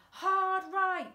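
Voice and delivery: high loud command; shouted. A narrator's reading. Dad shouting the turn to Frank, loud. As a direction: bellow the turn. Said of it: "his dad shouted".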